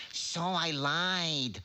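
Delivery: put-on troll laughing at the boy he lied to; wicked chuckle. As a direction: chuckle it out smugly. Troll mocks his victim.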